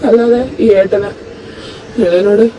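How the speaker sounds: hurt outburst. Acted. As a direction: pour out the hurt, almost shouting. Hurt husband pours out his anger.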